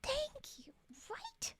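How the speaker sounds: high whispered thank you. Retold or imitated. Thanking fellow streamers in a high whisper. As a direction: breathe it out high and grateful. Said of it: "and I was like".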